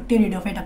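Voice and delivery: টেরিডোফাইটা said as teridofaita, p silent. Shown as a demonstration. Teacher shows students how to say টেরিডোফাইটা without the p. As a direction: say টেরিডোফাইটা starting with t, no p sound. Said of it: "পিটা উচ্চারণ হয় না".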